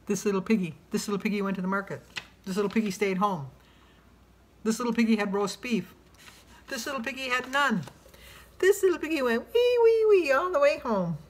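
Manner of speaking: sing-song rhyme, rising to a squeal at wee; nursery rhyme reading. Acted. Reads the piggy rhyme from a card, sing-song. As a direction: read it like to a toddler.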